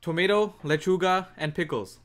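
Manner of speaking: mimicked caller. Caller listing order.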